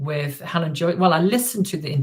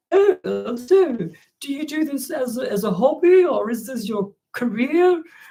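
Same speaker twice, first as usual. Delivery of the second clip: slow, affected, put-on ladylike voice; 8 semitones higher than usual. Telling a story, the speaker quotes a man who came up to them: put-on lady voice. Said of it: "he put it on his lady voice".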